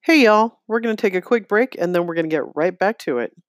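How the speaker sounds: upbeat host throw to break; host break announcement. Real, not acted. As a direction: announce a quick break to listeners.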